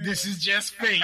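shouting over fire alarm. Real, not acted. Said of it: "We gotta kill that alarm".

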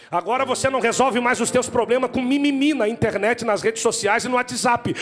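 preaching at full force. Acted. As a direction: build it into a roaring sermon climax. (pregação inflamada, alta e aguda)

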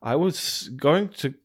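rising panicked shout; panicked shock. Retold or imitated. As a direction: realise in horror, voice climbing. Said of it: "he's like".

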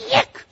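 a sharp high yelp for the landing; landing sound effect. Retold or imitated. Preacher sounds out his plane landing. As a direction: mimic the plane touching down.

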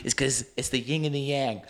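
soft unvoiced whisper, leaning in. Real, not acted. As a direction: whisper it like a secret. Confiding aside about their friendship.

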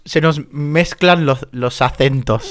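"mezclan los acentos" despacio, forzando la Z española; intento de Z española. Shown as a demonstration. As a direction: pronuncia con cuidado "acentos" a la española. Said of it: "A mí no me sale ni a palo". (imitación lenta de acento español)

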